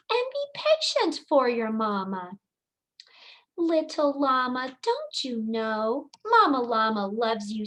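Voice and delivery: expressive storybook reading; singsong rhyming read-aloud; reading to children. Acted. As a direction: read it like bedtime story time for little kids. Teacher reads picture book aloud.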